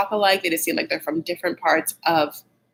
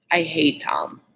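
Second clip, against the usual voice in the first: whispered confession; 4 semitones lower, slower than usual. Real, not acted. Podcaster confiding to listeners, whispering. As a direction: breathe it like a secret. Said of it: "whispered admission".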